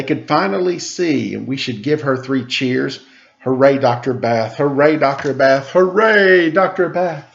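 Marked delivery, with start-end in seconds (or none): 3.4-5.7 rising cheers, louder each time; three cheers building up; cheering. Acted. Cheering the doctor in rhyme. 5.7-6.5 high, loud final hooray; big cheer. Acted. Third cheer, the peak. 6.5-7.3 rising cheers, louder each time; three cheers building up; cheering. Acted. Cheering the doctor in rhyme.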